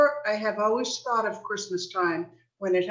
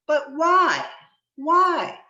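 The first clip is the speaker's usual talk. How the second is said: baffled plea; 5 semitones higher, 6 dB louder, slower than usual. Acted. Nephew presses uncle for reason.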